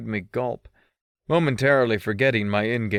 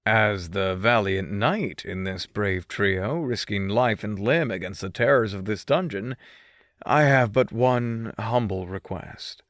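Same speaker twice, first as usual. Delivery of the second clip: mischievous voice. Acted. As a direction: play the gallant knight with a wink. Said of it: "putting on my most mischievous voice".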